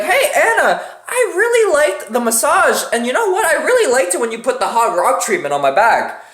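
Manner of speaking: lightly voiced happy girlfriend; a hint of a blissed-out girlfriend; dreamy girlfriend. Girlfriend voiced thanking masseuse.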